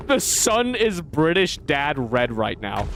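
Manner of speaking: slow, rough attempt at a British accent. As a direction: try a British accent, unhurried. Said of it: "I need to practice my British accent".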